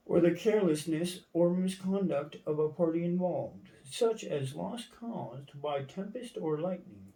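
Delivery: lightly heightened dictionary-reading voice; formal reading. Acted. Reading a legal definition aloud, mildly declamatory. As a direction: read it out with swinging, emphatic intonation.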